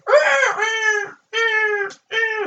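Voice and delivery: high shouted ah, ah caws; imitated crow-like cry. Describing the movie's background noise with a high shouted caw. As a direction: caw like the eerie background bird. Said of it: "Where it's like".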